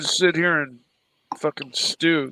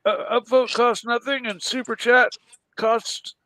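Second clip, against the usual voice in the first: excited urging; 6 semitones higher than usual. Real, not acted. Pushing viewers to upvote.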